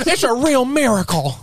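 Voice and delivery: high-pitched cry of wonder; acted amazement. Worker greeting the boss's Christmas bonus, amazed and high-pitched. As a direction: proclaim a miracle in a high, put-on voice.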